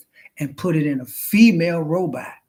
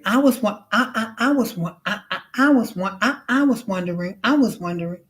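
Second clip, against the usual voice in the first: higher, stuck-record stutter; glitching robot; 5 semitones higher than usual. Retold or imitated. Robot glitching while talking to a human, stuttering. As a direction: stammer like a robot caught in a loop.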